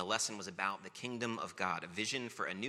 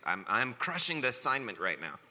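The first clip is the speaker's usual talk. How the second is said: put-on boasting kid; 2 semitones higher, 8 dB louder than usual. Child dad boasting about peas trick.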